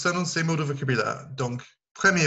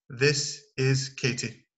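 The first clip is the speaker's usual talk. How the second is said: this is Katie, slow and clear; model introduction; much slower than usual. Shown as a demonstration. Teacher models introducing Katie to students, slow. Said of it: "Vous pouvez dire".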